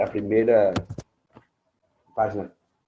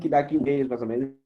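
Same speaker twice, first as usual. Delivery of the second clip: buffering stutter; 4 semitones higher, 3 dB louder, faster than usual. Real, not acted. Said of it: "tá travando sua voz".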